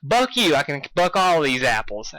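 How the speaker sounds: a touch of an indignant snap; lightly voiced angry Applejack; mock snapping. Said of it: "Applejack snapped".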